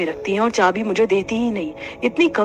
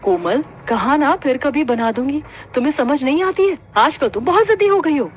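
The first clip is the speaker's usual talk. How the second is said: mild scolding; 5 semitones higher than usual. Acted. Mother scolding stubborn daughter.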